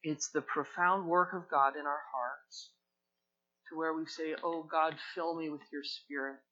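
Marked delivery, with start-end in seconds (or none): 4.4-6.4 soft, earnest prayer; quiet plea to God. Shown as a demonstration. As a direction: pray it low and sincere. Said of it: "Would you just say that with me?".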